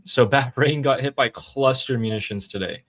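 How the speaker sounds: amused chuckle breaking into the report; laughing while talking. Real, not acted. Host reporting cluster munitions on Bahrain, real chuckle. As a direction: let a small laugh slip into the news. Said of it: "stop laughing when you say that".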